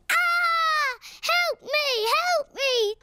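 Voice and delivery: imitated cry for help. Child imitating mummy stuck in a bush, mock cry for help. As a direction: mimic someone stuck and calling for rescue. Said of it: "And she was going".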